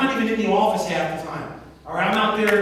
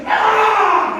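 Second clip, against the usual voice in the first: loud, high, drawn-out yell; exertion scream; 11 semitones higher, 10 dB louder than usual. Retold or imitated. Telling how Carol slammed the ball, screaming. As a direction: imitate her scream mid ball slam. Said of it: "And she's screaming".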